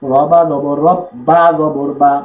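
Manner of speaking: letter-by-letter Arabic spelling drill, held firmly. Shown as a demonstration. Teacher drilling the shadda word, firm spelling chant. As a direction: spell each syllable with steady weight. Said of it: "শক্ত করে জোরালোভাবে".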